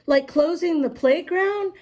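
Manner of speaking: lightly voiced little girl asking; a hint of a girl's voice. A narrator's reading. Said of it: "the little girl asked".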